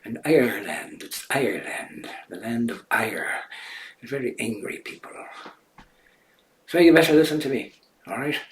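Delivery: a hint of an Irish accent, half-joking; light Irish accent. Shown as a demonstration. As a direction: put on a faint Irish lilt as a joke. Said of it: "perhaps maybe a little Irish accent".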